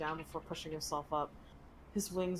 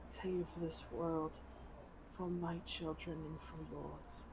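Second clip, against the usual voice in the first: dying dragon voice; 8 dB quieter than usual. Acted. Dragon's last charge.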